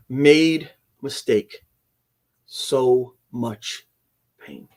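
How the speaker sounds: slow, fading, pained ghost voice trailing off; a hint of a suffering spirit, dying away; half-done ghost voice. The ghost to the teller, faintly voiced with slow fading pain. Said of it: "I can't do the voice".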